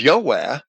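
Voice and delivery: "Yahweh" said YO-weh, with an O; Latin pronunciation. Shown as a demonstration. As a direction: Latin form of Jove as two syllables, Yo-weh for Yahweh. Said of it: "Jove in Latin is".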